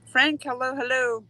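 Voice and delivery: high happy hello to Frank; cheery greeting. Real, not acted. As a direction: welcome him warmly and brightly. Greeting a viewer by name.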